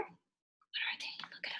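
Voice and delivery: slow, high, breathy whisper. Shown as a demonstration. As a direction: whisper the question to build curiosity. Teacher whispers question about seeds.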